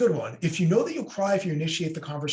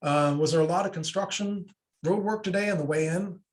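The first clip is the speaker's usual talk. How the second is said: escalating jab; 4 semitones higher than usual. Acted. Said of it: "the other person escalates it".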